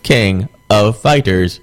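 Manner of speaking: slow, flat synthesized-speech voice; Stephen Hawking voice. Retold or imitated. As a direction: lightly imitate a computer voice. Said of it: "And Stephen Hawking's like".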